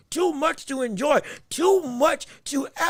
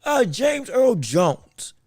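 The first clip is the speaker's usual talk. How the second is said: James Earl Jones; 2 semitones lower, much slower than usual. Shown as a demonstration. Host asking who the new voice resembles, light impression. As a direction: stretch it slowly, lightly imitating a famous voice. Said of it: "Does it sound like".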